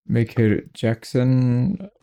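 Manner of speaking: slow, lightly put-on Asian accent. Introducing the new companion, in a mild mock Asian accent. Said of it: "I said that with an Asian accent".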